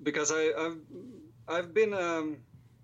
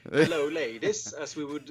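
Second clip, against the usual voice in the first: put-on 1 Swedish accent; 4 dB louder than usual. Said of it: "that's more of a Swedish accent".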